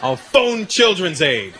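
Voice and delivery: put-on slow, measured kid's warning; deliberate threat. Boy tries a threat on his dad, slow and deliberate. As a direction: deliver the bluff slowly, word by word. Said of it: "I go".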